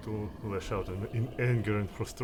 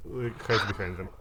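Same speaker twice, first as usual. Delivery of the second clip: usual speaking voice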